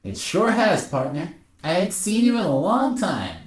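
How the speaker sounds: old-partner cowboy twang, badly faked; bad cowboy accent. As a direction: put on a hammy cowboy accent. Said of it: "I'm so bad at this accent".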